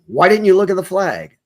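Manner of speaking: insistent demand, a touch of anger; almost angry. Retold or imitated. Mysterious voice demanding an answer at night, almost angry. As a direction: press the question, mildly cross. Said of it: "this time the voice was almost angry".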